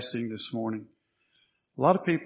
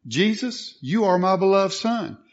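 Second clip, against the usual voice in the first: raised, louder preaching proclamation; the Father declaring; 6 semitones higher, 5 dB louder than usual. Retold or imitated. The Father speaking to Jesus, in a raised, emphatic declaration. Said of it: "to the Father saying".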